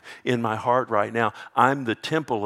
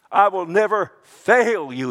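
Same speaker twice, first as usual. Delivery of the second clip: loud, high proclamation; emphatic promise; 7 semitones higher, 6 dB louder than usual. Acted. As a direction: proclaim it with force. Preacher proclaims God's promise.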